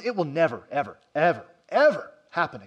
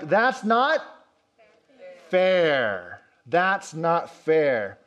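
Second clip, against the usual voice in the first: howling protest; much slower than usual. Retold or imitated. Students protesting their failing grade, mock howl. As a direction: imitate students wailing it's unfair. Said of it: "They howled in protest, screaming".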